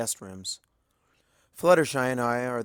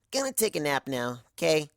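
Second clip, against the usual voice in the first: drowsy, trailing off; half asleep, ready to nap; sleepy voice; 4 semitones higher than usual. Acted. Twilight exhausted, about to sleep.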